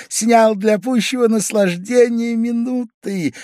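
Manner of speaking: put-on high, loud, drunken chatter; tipsy apology. A narrator's reading. Drunk guest explains his undress to his host. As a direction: babble happily, a bit drunk.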